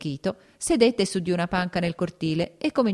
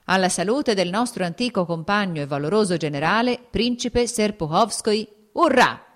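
building to a loud cheer of urrà; rousing toast; 3 semitones higher, 3 dB louder than usual. Acted. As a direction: raise the glass and swell into a shouted hurrah. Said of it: "pronunciò il brindisi".

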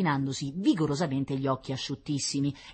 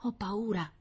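put-on soft, higher child voice; frightened whisper; 6 semitones higher, 5 dB quieter than usual. A narrator's reading. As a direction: confide your fear under your breath. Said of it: "bisbigliò Rita".

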